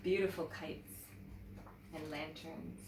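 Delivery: put-on lively read-aloud to children; teacher reads a picture book to young students, animated; storybook narration. A narrator's reading. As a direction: tell it like story time for kids.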